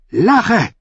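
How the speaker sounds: high, forceful one-word order; snarled command. A narrator's reading. Brienne stabs the fool and orders him, furious snarl. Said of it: "fauchte sie ihn an".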